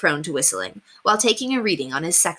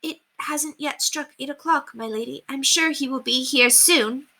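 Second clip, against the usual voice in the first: anxious; 7 semitones higher than usual. Acted. Anxious maid soothes her frantic mistress. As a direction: reassure her timidly under breath. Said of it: "Margaret swallowed anxiously".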